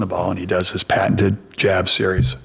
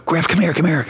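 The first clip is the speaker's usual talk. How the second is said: raised-pitch, eager retold call; calling over; 9 semitones higher than usual. Father calls his son over to meet a star, calling out. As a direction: beckon your son from the other end.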